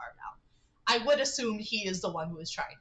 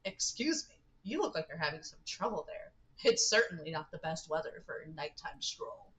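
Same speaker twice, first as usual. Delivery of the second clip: lightly voiced kindly stranger, a touch lower; a hint of a polite older man offering help; halfway Ford voice; 4 semitones lower than usual. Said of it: "a halfway forward voice".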